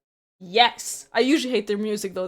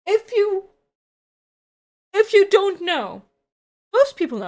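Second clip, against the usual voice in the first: giggling through the words; can't stop laughing, giggly and breathless; hiccup giggles; 7 semitones higher, 8 dB louder than usual. Real, not acted. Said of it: "Sorry, I can't stop laughing".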